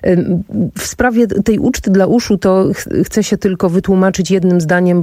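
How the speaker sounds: stuffy nose from blocked sinuses. Real, not acted. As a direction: talk through a blocked nose. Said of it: "słyszą państwo mój delikatnie, y, zmieniony głos".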